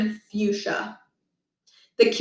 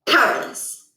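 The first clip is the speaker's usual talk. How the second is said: hushed verdict; 4 semitones higher than usual. Acted. Principal quiet whisper.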